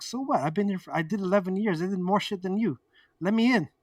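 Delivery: insistent, indignant comeback, retold; defiant retort. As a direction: act out arguing your way in. Acted argument to be let in.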